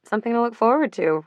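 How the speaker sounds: sarcastic smile. Acted. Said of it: "Rachel said with a smile".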